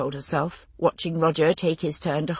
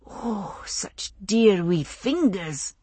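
breathed; much slower than usual. Acted. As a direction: breathe the words out in wonder. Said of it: "Kezzy or Joe breathed".

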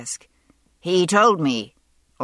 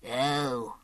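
dripping with sympathy; 4 semitones lower, 7 dB quieter than usual. Acted. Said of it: "this time dripping with sympathy".

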